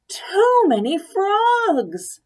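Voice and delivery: high, loud, very slow wail; very slow high loud despairing cry; cried out. A narrator's reading. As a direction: stretch every word in despair. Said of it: "she cried".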